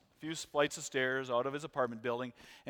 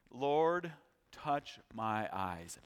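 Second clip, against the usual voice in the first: quiet prayer; 2 semitones lower, 5 dB quieter, much slower than usual. Pretend. Voicing a prayer to God.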